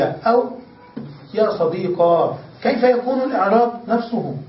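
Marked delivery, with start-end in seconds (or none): 1.3-2.4 slow صديقا ending in a long ā; صديقا with the ya changed to alif; ya turned to alif. Shown as a demonstration. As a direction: draw out صديقا and close on ā. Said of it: "تقول".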